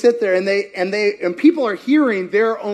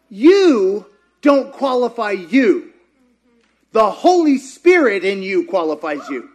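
laughing; 4 dB louder than usual. Real, not acted. Laughing emphasis.

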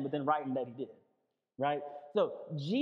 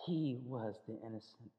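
solemn preaching; 5 semitones lower, 4 dB quieter than usual. Real, not acted. Preacher telling congregation of Jesus as innocent victim, solemn and hushed.

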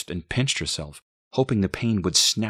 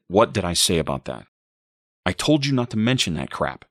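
irritated, louder cut-in; angry reprimand; 5 dB louder than usual. A narrator's reading. Boyfriend interrupts mother, louder irritated reprimand. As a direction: cut them off with a scolding. Boyfriend cuts her off angrily.

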